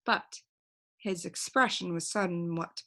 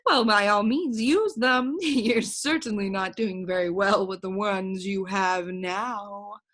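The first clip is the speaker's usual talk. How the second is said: mocking bird voice; 5 dB louder than usual.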